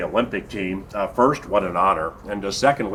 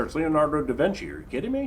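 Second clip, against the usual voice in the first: excited; 7 semitones higher, faster than usual. Real, not acted. Raving about The Last Supper.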